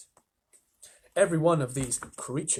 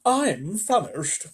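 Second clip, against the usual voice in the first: slow, higher drawn-out grasshopper; 6 semitones higher, 4 dB louder, much slower than usual. Acted. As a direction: stretch out the hunger, slow and high. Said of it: "the old green grasshopper said".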